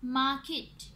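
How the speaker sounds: "मार्केट" in two distinct beats; "मार्केट" split for syllable counting. Shown as a demonstration. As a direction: say "मार्केट" as मार, केट. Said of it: "two syllable word".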